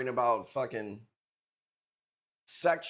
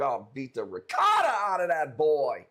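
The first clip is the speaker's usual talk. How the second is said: louder joking threat; mock shout; 5 dB louder than usual. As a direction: yell the threat half in fun.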